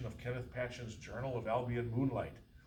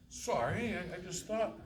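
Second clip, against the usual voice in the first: flustered clerk; 8 semitones higher than usual. Acted.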